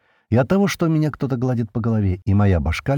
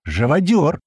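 higher, louder angry cry; shouting; 7 semitones higher, 3 dB louder, slower than usual. A narrator's reading. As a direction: hurl the insult at him. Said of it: "закричал Базе".

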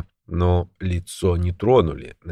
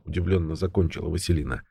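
usual speaking voice

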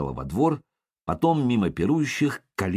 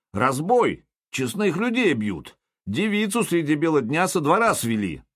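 roaring; 7 semitones higher than usual. Acted. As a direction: roar it out, outraged. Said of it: "взревел он". (громкий возмущённый рёв)

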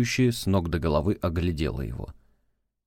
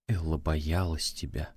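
recalled murmur; 3 semitones lower, 6 dB quieter than usual. Retold or imitated. He recalls her words.

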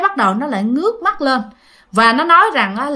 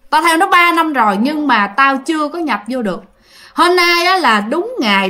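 the ghost speaking; 2 semitones higher than usual. Retold or imitated. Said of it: "Nó nói rằng".

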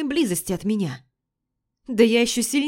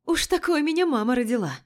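laughing; 7 semitones higher than usual. A narrator's reading. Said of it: "Смеюсь".

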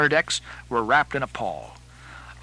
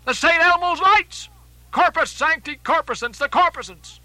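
high-pitched shouted alarm; excited, raised-voice exclamations; awestruck cry; 14 semitones higher, 5 dB louder than usual. Acted. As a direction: cry out the sighting to the whole ship. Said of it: "cried Starbuck".

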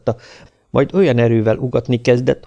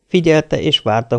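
ordinary delivery, nothing marked

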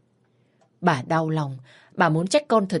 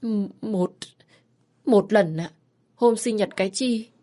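stammering, higher, ashamed admission; head down, stumbling over the answer; 4 semitones higher than usual. Acted. Ashamed daughter admitting to her mother, stammering. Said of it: "cúi gằm mặt xấu hổ".

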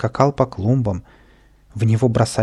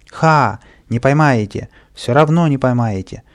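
loud mocking jeer from above; taunting shout; 2 semitones higher, 5 dB louder than usual. Kapriska jeering at the crowd from the lamp post, loud taunt. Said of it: "выкрикивал он".

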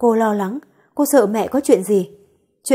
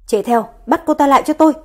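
higher, louder, fast command; shouted order; 4 semitones higher, 4 dB louder, faster than usual. Acted. Boss ordering his assistant to chase, shouting fast. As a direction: bark the order after her. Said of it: "liền thét lớn ra lệnh".

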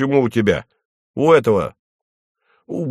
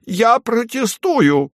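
high, slow, whining shout; a bureaucrat howling at a rule broken; tearful cry; slower than usual. A narrator's reading. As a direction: wail the protest near tears. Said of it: "плачущим голосом закричал Фарфуркис".

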